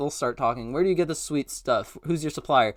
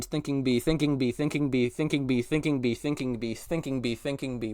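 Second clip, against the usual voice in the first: fading mantra; 6 dB quieter than usual. Acted. Repeated mantra, told to repeat.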